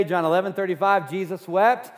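loud, deliberate verse; emphatic recitation. Shown as a demonstration. Preacher making the church memorize the verse, emphatically. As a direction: drill the verse into the crowd. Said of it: "you're leaving church today".

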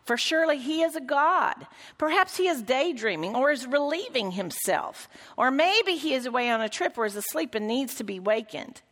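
a touch of scorn as Elijah teases; mild scoffing mockery. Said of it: "he scoffed".

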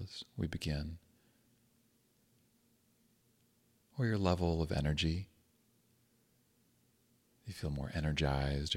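calm, unhurried meditation guidance with long pauses; guided meditation. Acted. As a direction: gently guide listeners into grounding, leaving space between phrases.

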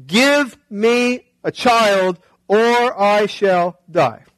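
drawn-out mock melodrama, slow; dramatic plea. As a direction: ham up a desperate plea, slowly. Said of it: "The more drama in Genesis".

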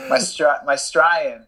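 playful put-on Australian accent; mock-Aussie twang. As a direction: imitate an Aussie saying "Australian". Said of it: "I can turn it on".

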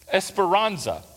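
esperanza said with a Southern American accent. Shown as a demonstration. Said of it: "that sounded like a Southern boy".

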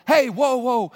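loud "Hey, whoa" to stop the crowd; calling out. Acted. Pilgrim calling out to the coaches, loud. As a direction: flag down the shouting coaches.

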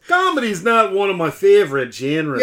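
put-on thick New York accent. Hosts trading lines of a listener's comment, thick New York accent. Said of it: "we'll go back and forth on this".

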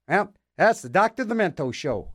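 usual speaking voice

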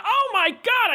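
high, stunned exclamation; shocked. Real, not acted. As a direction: gasp it out in real disbelief. Shock at the winning bid.

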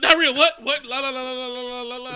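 high, loud, laughing mock denial; laughing hammed-up denial; mocking disbelief. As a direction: sing la la la to drown it out. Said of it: "He's like".

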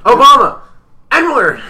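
high, loud blurts; mock screaming. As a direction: shout random words through laughter. Re-enacting the random shouted outbursts.

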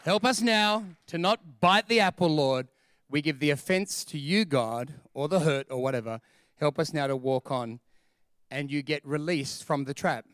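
prayer. Acted. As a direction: humbly hand it over to God. Models a prayer of repentance.

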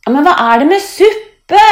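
high, loud bewildered asking; puzzled question. A narrator's reading. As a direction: ask as if left out of the joke. Line asks the laughing friends, puzzled. (forvirret, høyt spørsmål)

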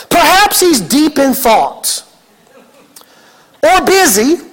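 slow, mock-thoughtful taunt; Elijah. Elijah suggesting why their god is silent, slow taunt. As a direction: tease with pretended helpful guesses. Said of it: "Elijah began to taunt them".

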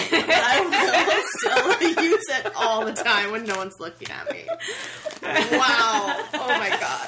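words through real laughter; laughing. Real, not acted. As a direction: laugh your way through it, a bit embarrassed. Laughing at embarrassing gift.

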